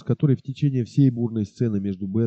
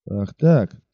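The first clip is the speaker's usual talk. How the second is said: roaring; 3 semitones higher than usual. Acted. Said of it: "заревел он".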